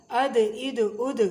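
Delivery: اد with the د rebounding; qalqala bounce. Shown as a demonstration. Teacher demonstrating qalqala on دال. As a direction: knock the دال so it echoes. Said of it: "بڑے مزے کی آواز نکلتی ہے ایسے".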